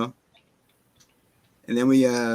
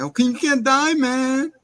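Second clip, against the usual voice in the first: high, loud mock panic; high-pitched mock panic; panicked plea; 13 semitones higher, 5 dB louder than usual. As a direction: beg him not to die, hammed-up. Retold quote, voice raised.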